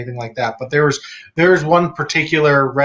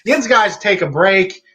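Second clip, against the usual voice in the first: Western PA accent; 5 semitones higher than usual. Shown as a demonstration. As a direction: lay on the Pittsburgh dialect, unhurried. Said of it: "that's what Western P A people say".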